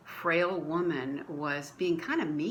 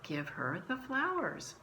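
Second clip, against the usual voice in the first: calm gentle voice; 6 semitones higher, 4 dB quieter than usual. Retold or imitated. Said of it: "the voice very calmly, very gently".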